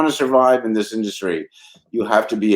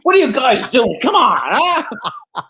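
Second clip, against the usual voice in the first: put-on old Carl Reiner; 12 semitones higher, 4 dB louder, slower than usual. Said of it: "Carl Reiner voiced in story".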